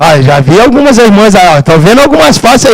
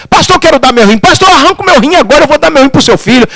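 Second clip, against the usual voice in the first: eager volunteers; 4 semitones higher, faster than usual. Retold or imitated. Crowd volunteering to donate kidney.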